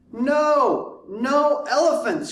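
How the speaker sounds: high, loud firm refusal; shouting. Acted. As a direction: shout it down, stubborn grandma. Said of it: "shouted Grandma".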